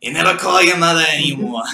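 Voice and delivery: quick nagging Jewish mother, lightly voiced. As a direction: throw the guilt trip fast like a Jewish mom. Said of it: "spot on Jewish Lady".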